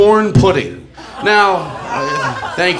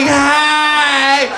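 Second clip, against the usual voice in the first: mock shout; 7 semitones higher than usual. Comic acting out a bedroom standoff, mock shouted call. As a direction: bark it out like a startled call.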